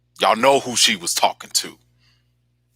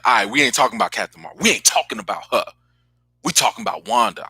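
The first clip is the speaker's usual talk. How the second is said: snappy Monica; faster than usual. Retold or imitated. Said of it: "she was like".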